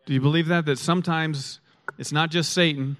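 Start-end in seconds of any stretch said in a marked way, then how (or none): 0.1-0.6 "Do you believe that?" asked again louder, pressing the congregation; louder repeat. Shown as a demonstration. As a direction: push the question harder the second time.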